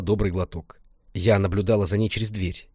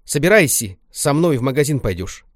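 louder, higher firm command; stern order; 5 semitones higher, 5 dB louder than usual. Acted. Grandma orders Lenka to the shop, stern command. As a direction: order her to get ready.

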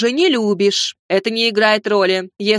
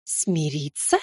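low, soft, rising hiss of disbelief; "Смириться?" hissed low and quiet with a rise at the end; hissed through teeth; 7 semitones lower, 8 dB quieter, slower than usual. A narrator's reading. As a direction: spit "Смириться?" back quietly, lower and softer, voice rising. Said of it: "процедила она".

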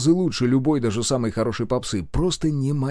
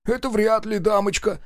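higher, sniffing mechanic retort; mocking mechanic; 11 semitones higher than usual. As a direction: brush the lady off. Mechanic voiced. (с насмешкой)

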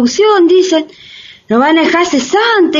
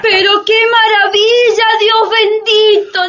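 amazed; 7 semitones higher than usual. Acted. Housewife marvels at robot maids.

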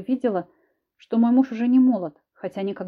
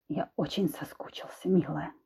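soft predatory whisper; 4 semitones lower, 7 dB quieter than usual. Acted. Husband whispers menacingly to his wife.

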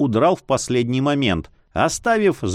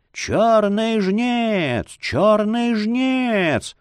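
high, slow howling cry of terror; terrified wailing; 8 semitones higher, much slower than usual. A narrator's reading. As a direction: wail it out in panic. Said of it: "вопит кто-то".

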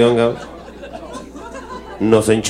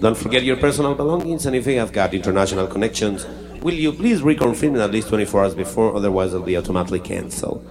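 lightly voiced English captain announcement, lower and softer; mock pilot announcement; 3 semitones lower, 4 dB quieter than usual. Captain Godínez addressing passengers on landing, mock formal. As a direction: read it like a bored airline captain in English. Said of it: "ahí va el microfonito".

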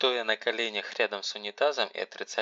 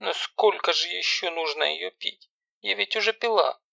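high, whiny voice close to crying; high, self-pitying girl almost crying; self-pitying, near tears; 9 semitones higher than usual. Acted. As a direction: whimper out of self-pity. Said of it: "дрожащим от жалости к себе голосом, чуть не плача".

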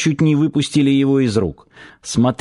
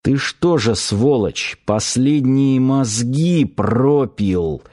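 mild hiss; slower than usual. Acted. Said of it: "прошипел Старпом".

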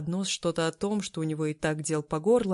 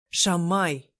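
louder indignant call of Шамай; 5 dB louder than usual. Acted. Demir indignant at his friend, loud Шамай. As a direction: throw out Шамай in protest. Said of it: "возмутился Демир".

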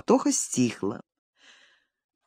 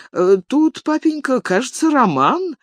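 timid; 9 semitones higher than usual. A narrator's reading. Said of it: "робко сказал Николай".

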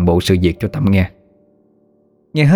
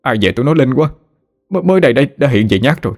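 sweet naive whine; 5 semitones higher, faster than usual. A narrator's reading. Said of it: "giọng điệu ngọt ngào pha lẫn chút ngu ngơ".

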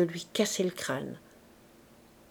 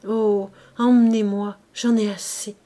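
urgent, louder begging; passionate pleading; 4 dB louder than usual. Acted. Gervaise begs old Bazouge, desperate pleading. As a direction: plead desperately to be taken away. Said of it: "se mit à le supplier avec passion".

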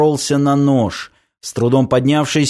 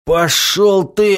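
higher, slow, defiant grunt of a retort; gruff retort; 6 semitones higher, slower than usual. A narrator's reading. Beaten Semyon to the stranger, gruff retort. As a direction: spit it back while winded. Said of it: "буркнул Семён".

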